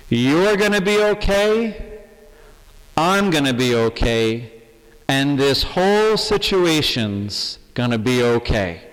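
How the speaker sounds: a pastor assuring anxious parishioners, firm and clear; loud and clear. Real, not acted. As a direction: declare it boldly to the whole parish. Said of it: "I would like to say loud and clear".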